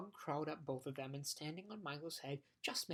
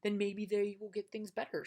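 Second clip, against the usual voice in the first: shouting; 5 semitones higher, 5 dB louder than usual. Acted. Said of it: "shouted Milo again".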